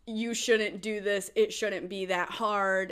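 slow, condescending mock customer. Smug customer lecturing a retail worker, slow mocking voice. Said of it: "Or it's".

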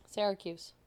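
Syracuse on its own, opening on "sair"; correct Syracuse. Shown as a demonstration. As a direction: model SAIR-uh-kyooss for Syracuse. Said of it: "It's supposed to be Syracuse".

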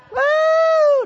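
a sudden high, loud whoop of joy. Real, not acted. Preacher whooping with joy at the congregation. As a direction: let out a joyful whoop.

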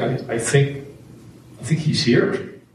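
hushed, breathless whisper of discovery; awed whisper. Retold or imitated. Recalling the moment he sensed Jesus, hushed whisper. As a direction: whisper it as if sensing a presence. Awed realization during the retreat.

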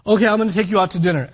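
fast, loud, grudging offer; mock angry. Husband taking wife out to dinner, mock angry. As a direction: rush it out in mild mock anger. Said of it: "angry the whole drive".

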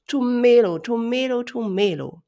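high, loud chorus call; herd calling back. Acted. Herd repeats the name.

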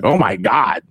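incredulous, rising to a high squeak; hammed-up shocked viewer; mock disbelief. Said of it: "I'm just like".

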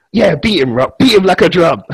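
loud, high mock cheering; hyped cheering. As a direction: egg on a fighter like a fired-up fan. Acts out cheering on The Rock.

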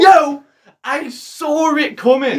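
loud, high insistent no; indignant protest. Real, not acted. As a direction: protest loudly that you saw it coming. Insisting during playful argument.

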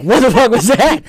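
loud, very high retold outburst; recounted shock, about to crack up laughing; baffled, amused disbelief. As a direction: squawk it in incredulous amusement. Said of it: "I just started dying laughing".

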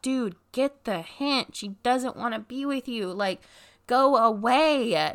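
high, slow, fed-up plea to leave; exasperated. Retold or imitated. Neighbor fed up with the ex begging outside, high and drawn out. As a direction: lean into a drawn-out go away.

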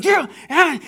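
high, loud mock yell of a drunk man; a retold drunk's loud bellow; imitated drunk yell. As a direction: yell it out, wordless and wild. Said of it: "he is yelling to the point".

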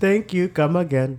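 put-on Indian accent. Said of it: "I would do an Indian accent".

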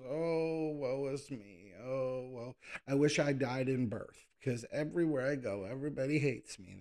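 whiny, self-pitying mock wail; hammed-up woe-is-me whimper; whiny baby. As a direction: mildly whine it like a big baby. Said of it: "That's what he sounds like, a big whiny baby".

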